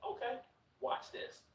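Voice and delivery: slow, hushed, menacing promise; drawn-out, breathy warning; ominous threat. Retold or imitated. Crazy ex threatening her boyfriend, slow and hushed. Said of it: "she looks me in my eyes and she says".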